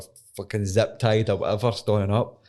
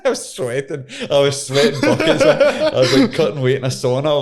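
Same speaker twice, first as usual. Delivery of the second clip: laughing; 6 semitones higher, 7 dB louder than usual. Real, not acted. Laughing while recalling fear.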